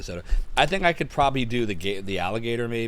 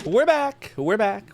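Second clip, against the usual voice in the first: excited announcer; 10 semitones higher, 4 dB louder, slower than usual. Real, not acted. Returning, repeated with rising energy.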